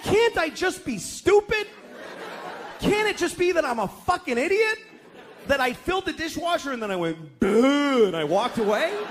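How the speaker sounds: husband mock-whining to his wife; whiny pleading. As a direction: beg to be allowed stupidity.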